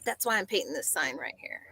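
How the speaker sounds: whispered, soft aside. Retold or imitated. Telling the passerby about the sign in a whisper. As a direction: drop to a secret whisper.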